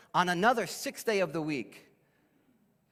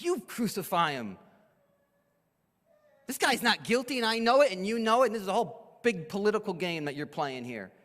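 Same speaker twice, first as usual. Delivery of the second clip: higher, exasperated Pilate venting; 3 semitones higher than usual. Acted. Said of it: "He was exasperated with them".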